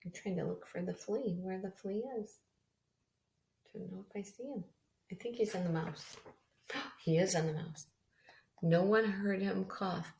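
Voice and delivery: gentle storybook read-aloud; reading to children. Acted. Teacher reading a picture book to her class, gentle storytelling. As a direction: read it to a class of little kids.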